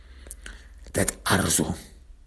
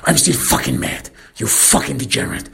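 angry yell; 4 semitones higher than usual. Acted. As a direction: spit out the insult, worked up. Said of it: "I yell at him".

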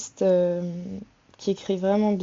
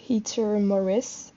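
French-accented English name; slower than usual. Real, not acted. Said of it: "excusez mon anglais, mais mon accent français".

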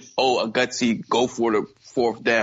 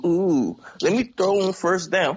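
mocking coach; 4 semitones higher than usual. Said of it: "y'all try to get too".

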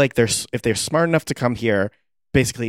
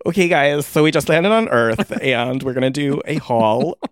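influencer voice; 4 semitones higher, 3 dB louder than usual. Pretend. Alien influencer vlog parody.

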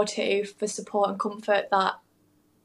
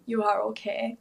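through tears; slower than usual. Real, not acted. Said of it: "I'm sorry, I'm crying".

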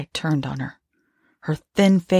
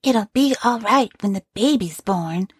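high, tender quoted wife; the woman voicing the dead wife, high and tender; 6 semitones higher than usual. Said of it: "she says".

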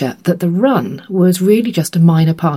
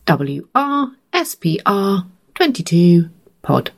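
slow spelled-out code; slower than usual. Shown as a demonstration. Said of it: "very long code".

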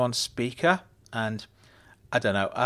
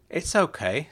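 bright; 6 semitones higher than usual. A narrator's reading. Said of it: "said Glinda brightly".

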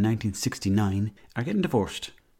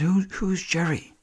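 high, slow, baffled who's Jerry; 9 semitones higher, slower than usual. Retold or imitated. Narrator baffled at the mechanic's news, high and slow. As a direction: play it puzzled and drawn out.

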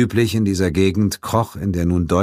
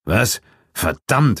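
sharp mild curse; mild startled curse; cursing; 4 semitones higher, slower than usual. A narrator's reading. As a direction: swear under the shock. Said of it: "fluchte Brigham".

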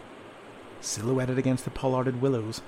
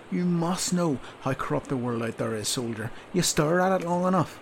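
a louder sergeant scolding a recruit; berating sergeant; 3 semitones higher, 5 dB louder than usual. Acted. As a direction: tear into the sleepy soldier. Sergeant berating sleepy soldier.

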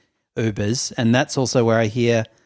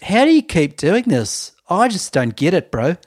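Zane Lowe impression; 7 semitones higher than usual. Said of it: "and then Zayn goes".

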